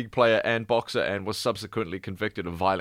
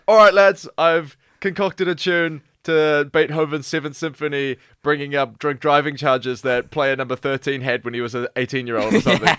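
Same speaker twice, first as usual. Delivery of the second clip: mock British fan leader; 4 semitones higher, 4 dB louder than usual.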